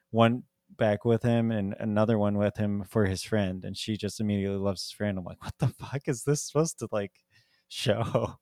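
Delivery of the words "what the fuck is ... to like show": incredulous mock reaction. Telling a friend about the movie, mock baffled disbelief. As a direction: play the disbelief up for the listener.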